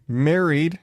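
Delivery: MARRIED drawn out with a rise, in air quotes. Acted. Podcaster scoffing at a woman marrying a ghost, MARRIED slow in air quotes. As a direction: put audible quote marks round MARRIED, stretching it. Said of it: "again, big ass air quotes".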